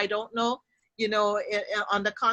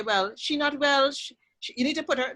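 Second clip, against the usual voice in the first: put-on Trinidadian accent; 5 semitones higher than usual. Relatives deciding about a sick woman, lightly in Trinidadian accent. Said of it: "in Trinidad, they will say".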